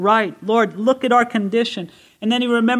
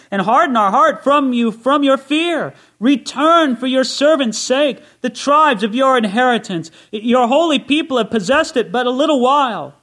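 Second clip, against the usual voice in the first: raised, ringing scripture read to the congregation; preached scripture reading; 2 semitones higher, 4 dB louder than usual. Acted. Preacher to his congregation, reading Isaiah with full force. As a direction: proclaim the prophet's prayer with full force. Reads scripture as a fervent prayer.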